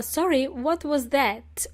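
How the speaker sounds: slow, polite "Sorry, what was that?"; polite request. Shown as a demonstration. Politely asking someone to repeat themselves. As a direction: ask gently and slowly, "Sorry" falling.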